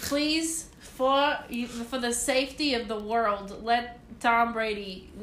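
lightly mocking Boston accent; earnest fan prayer with a Boston accent. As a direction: pray haltingly in a Boston accent. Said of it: "that was a good Boston accent".

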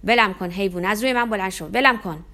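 loud desperate yell from under him; a pinned boy yelling at his attacker. Acted. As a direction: scream to be let go, pinned down. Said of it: "داد زدم".

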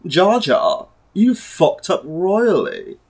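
imitating Obi-Wan's British accent, slow. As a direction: drag out the scolding in a put-on British Obi-Wan accent. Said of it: "you gotta do it in his accent".

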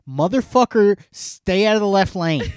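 loud, high furious yelling; road rage rant. Real, not acted. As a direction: yell at the truckers hogging the lane.

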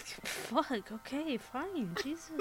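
a sulky monster giving up; annoyed monster. Retold or imitated. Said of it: "it'd be like".

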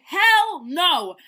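high, loud declaration; defiant exclamation. Acted. Oliver refuses to let life stop him, defiant. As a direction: burst out with bold refusal.

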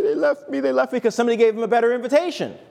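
mock hurt pastor. Pastor mocks his own hurt.

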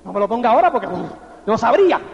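little dwarves sighing with relief at "someday"; relieved dwarves. Retold or imitated. (enanitos aliviados, voz más grave y suave)

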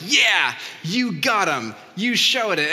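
loud, high cheer of triumph; cheering crowd. Retold or imitated. Crowd of pastors cheering the speaker, loud. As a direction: cheer like pastors throwing books. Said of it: "being like".

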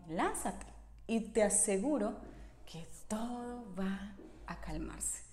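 lightly voiced seductive whisper of temptation, slowing down; tempting voice. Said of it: "volví a escuchar esa voz".

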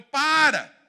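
sudden loud high cry to stop him; shouted command. Retold or imitated. Paul stops the jailer from killing himself, a loud shout. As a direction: yell at him to stop right now. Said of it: "Paulo gritou com ele".

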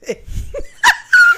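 very high loud squeal of laughter. Real, not acted. Laughing at chaotic intro.

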